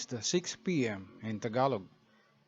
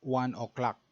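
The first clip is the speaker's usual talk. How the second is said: Tagalog accent. Shown as a demonstration. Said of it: "the Tagalog pronunciation is".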